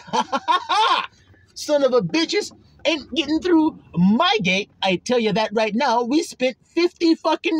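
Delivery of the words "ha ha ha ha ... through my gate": cocky laugh. Pretend. Mocking the wall's defender.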